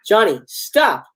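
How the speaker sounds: drawn-out, mildly nervous plea; a little nervous. A narrator's reading. Sister asking her teasing brother to stop, slightly nervous. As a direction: plead slowly, a touch uneasy. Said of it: "Barbara, becoming a little nervous".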